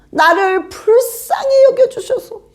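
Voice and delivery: high pleading voice with a laugh in it; blind man's plea. Retold or imitated. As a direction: beg like the blind man Bartimaeus. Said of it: "그것만 반복한 거예요".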